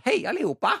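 high, bright-voiced cheery greeting with a Swedish lilt; little Swedish girl. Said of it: "bittelita svensk jente". (ei bittelita svensk jente som hilser, lyst og muntert)

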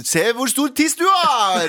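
high, drawn-out mock front-page headline; tabloid headline voice. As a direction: stretch out the silly headline, high and laughing. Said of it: "Dagbladet er bare sånn". (høy, langtrukken tabloidoverskrift)

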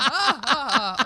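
high, drawn-out Bodø caricature; hammed-up Bodø impression with fake laughing; mock Bodø dialect. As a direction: send up Bodø speech in a silly high voice. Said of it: "De snakker sånn her".

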